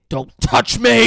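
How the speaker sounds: loud, drawn-out demonic shriek; crazy demon voice. Retold or imitated. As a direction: roar it out slowly like someone possessed. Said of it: "in, like, a crazy demon, like, dark voice".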